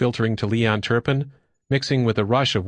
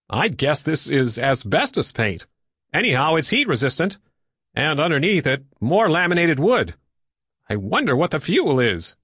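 raised, lightly animated character voice; curious investigator; 5 semitones higher than usual. Acted. Stanley scraping paint off the turbine, curious and higher. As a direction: think aloud with lifted pitch.

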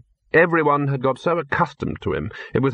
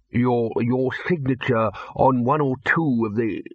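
hurried burble. Acted. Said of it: "the bursar burbled hurriedly".

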